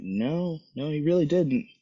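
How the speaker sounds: high-pitched, amiable contradiction; friendly disagreement. Retold or imitated. Bystander contradicts upset white man, friendly as can be. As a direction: disagree as nicely as possible. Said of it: "openly disagreeing with me in the most friendliest manner possible".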